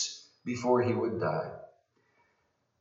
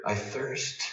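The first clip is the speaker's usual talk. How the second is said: almost whisper; 8 dB quieter than usual. Shown as a demonstration. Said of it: "almost whisper".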